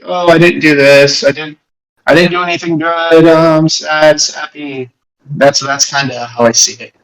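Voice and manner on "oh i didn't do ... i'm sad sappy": mock self-pity. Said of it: "It was more of a, like".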